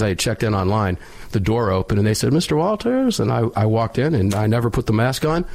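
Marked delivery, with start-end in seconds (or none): 2.3-3.2 high, sing-song call of a waiting-room nurse; calling out a name. Retold or imitated.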